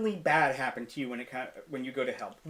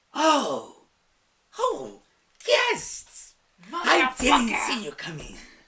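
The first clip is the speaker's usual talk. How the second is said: very high, sing-song, swooping voice; 9 semitones higher, 7 dB louder than usual. Voicing a presence that the players hear inside their heads: voice speaking inside their heads. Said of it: "all of you hear, in your heads".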